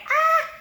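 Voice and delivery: very high, short squeal; mock shriek of laughter. Viewer cracking up at Armando's joke, high mock shriek. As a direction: re-enact a squeal of amusement. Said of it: "I was dying".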